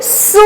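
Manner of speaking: सू with a long, held "oo"; pronunciation demo. Shown as a demonstration. Teacher showing the pronunciation, सू drawn out. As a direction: stretch the vowel of सू. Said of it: "इसका उच्चारण क्या निकलेगा".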